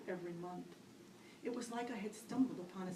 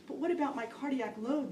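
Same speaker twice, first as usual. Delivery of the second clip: inner protest; 5 semitones higher, 4 dB louder than usual. Retold or imitated. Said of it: "the voice in my head protested".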